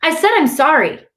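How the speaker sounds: high, loud defensive outburst; yelling. A narrator's reading. Boy fed up with his brother's scolding, yelling. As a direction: snap back at a scolding brother. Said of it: "I yell".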